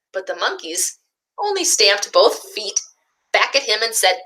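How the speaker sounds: put-on gentle picture-book narration for young listeners; storybook reading. A narrator's reading. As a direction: read it like story time for little ones.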